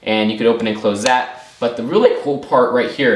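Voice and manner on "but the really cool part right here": voice crack. Real, not acted. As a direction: voice cracking mid-phrase. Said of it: "ooh, voice crack".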